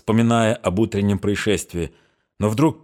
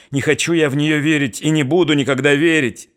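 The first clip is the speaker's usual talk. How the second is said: impatient outburst; 7 semitones higher, 4 dB louder than usual. A narrator's reading. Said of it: "воскликнул я нетерпеливо".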